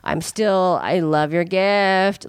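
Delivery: slow, mock-blissed-out delivery; imitated stoned contentment. Comedian texting thanks while high, in slow imitated bliss. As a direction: lightly play happily high, stretching it out. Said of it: "you could tell he had gotten high".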